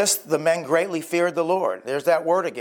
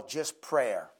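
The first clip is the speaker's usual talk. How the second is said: soft emphasis; 5 semitones lower, 8 dB quieter than usual. Acted. Sermon point, repeated softly.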